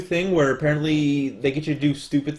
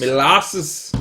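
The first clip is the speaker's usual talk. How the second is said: mock Scottish accent; 3 semitones lower, 6 dB louder than usual. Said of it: "It sounds like you're doing Scottish".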